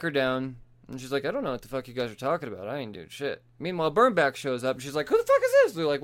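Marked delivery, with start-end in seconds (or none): 1.2-3.4 rattled off very fast, brushing them off; fast defensive shrug of a line; dismissive denial. Retold or imitated. Suspect brushing off the questioning cops, fast and dismissive. 5.1-5.7 sudden high, loud shocked cry; startled shriek. Retold or imitated. Suspect shrieking at the villain, high, loud and startled.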